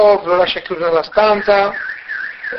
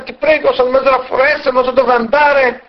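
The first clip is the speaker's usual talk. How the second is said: raised, pleading voice, slowing down at the end; 6 semitones higher than usual. Acted. Lost guest begging the woodcutter for shelter, pleading. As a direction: beg him humbly for shelter. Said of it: "E Bar Gentov supplica".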